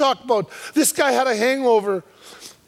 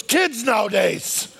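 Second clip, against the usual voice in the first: grumbling; 3 semitones lower, slower than usual. Retold or imitated. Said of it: "He goes".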